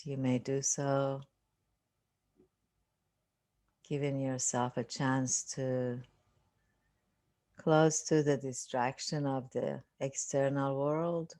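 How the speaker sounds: unhurried meditation guide, long silences between phrases; guided meditation. Real, not acted. Teacher settling listeners into a seated meditation, calm guiding voice. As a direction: ease them into stillness, phrase by phrase with long pauses.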